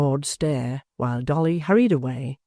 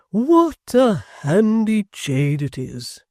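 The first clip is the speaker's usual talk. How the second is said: proud father; 7 semitones higher, 6 dB louder, much slower than usual. Acted. Proud father admires daughter.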